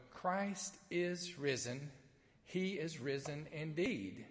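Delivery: slow, deliberate liturgical declaration; measured call and response from the pulpit; Easter proclamation. Real, not acted. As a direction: proclaim it slowly, word by word.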